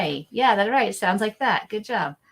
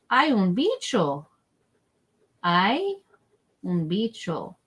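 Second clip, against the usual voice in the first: slow modeling; slower than usual. Shown as a demonstration. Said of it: "we're gonna say three times".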